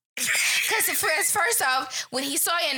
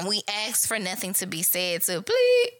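curt; 5 semitones lower than usual. Retold or imitated. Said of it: "She said".

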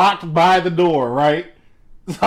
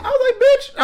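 squeaky high laughing cry of disbelief; laughing outburst. Retold or imitated. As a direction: blurt it out through a laugh. Stunned by the router rental scam.

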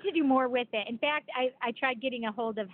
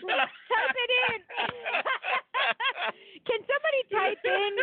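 calling out; 10 semitones higher than usual. Real, not acted. Calling to the chat audience.

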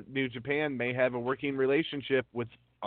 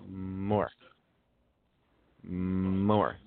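low drone; 6 semitones lower than usual. Real, not acted. Drones while scrolling for news.

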